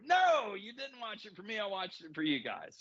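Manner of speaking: acted-out indignant retort, high emphatic "No"; retold protest. Retelling who watched the film for whom, mock protest. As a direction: start high on a mock protest, then drop down.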